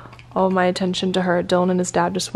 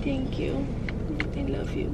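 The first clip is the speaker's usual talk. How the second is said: tearful, higher; 6 semitones higher, 9 dB quieter than usual. Real, not acted. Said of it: "I don't know why I'm crying".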